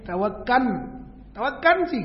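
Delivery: "ตะวักกัน" with an n at the end; lam read as nun. Shown as a demonstration. Teacher mocking the local habit, "ตะวักกัน" ending in n. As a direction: say "ตะวักกัน" the Thai way, closing on n. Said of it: "ตัวลามนี่อ่านเป็นนูน".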